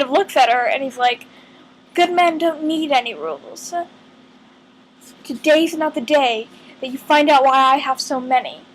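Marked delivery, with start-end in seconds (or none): 1.9-8.6 quoting in a loosely attempted British accent; understated, clumsy British accent; bad British accent. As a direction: slip into an amateur British accent. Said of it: "that was a horrible British accent".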